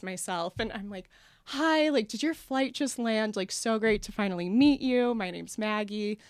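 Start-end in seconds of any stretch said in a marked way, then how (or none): 1.5-6.2 cheery. Retold or imitated. Overly friendly greeting to roommate.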